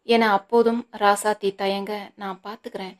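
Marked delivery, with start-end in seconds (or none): 2.1-2.9 firm emphasis. A narrator's reading. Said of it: "அழுத்தமான குரலில்".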